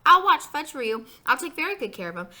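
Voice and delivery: put-on high, loud pleading kid; eager begging. A narrator's reading. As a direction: beg to be allowed. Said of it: "begged some more".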